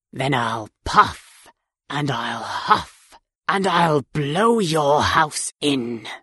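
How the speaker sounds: low, slow threatening wolf; big bad wolf voice. A narrator's reading. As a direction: growl the threat slowly and low. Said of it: "wolf threatens".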